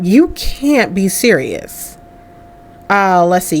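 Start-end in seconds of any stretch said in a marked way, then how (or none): 0.0-2.0 drawn-out, understated incredulity; slow disbelief. Acted. First take, before choosing to yell.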